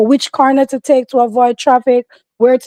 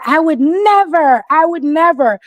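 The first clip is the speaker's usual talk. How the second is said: imitating the girl; 4 semitones higher than usual. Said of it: "when that girl said".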